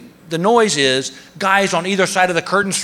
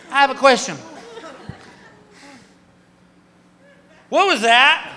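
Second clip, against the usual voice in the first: woozy question; 8 semitones higher than usual. Retold or imitated. Drugged patient asks nurse.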